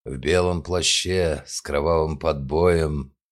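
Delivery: slow, mock-solemn quoting. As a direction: recite it like a classic line. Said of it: "начал цитировать Гаврилов".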